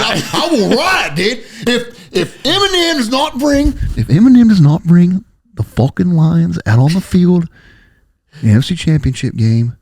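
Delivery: high, laughing, hyped half-joking vow; laughing mock threat. Real, not acted. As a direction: laugh through an over-the-top promise to riot.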